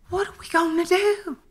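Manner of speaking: mock panic. Panicking at empty store shelves.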